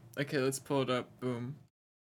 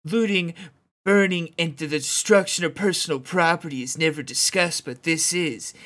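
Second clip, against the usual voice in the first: bro voice, a bit louder; gym bro; 4 dB louder than usual. Pretend. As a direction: read it like a laid-back bro. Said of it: "can you read this like a bro".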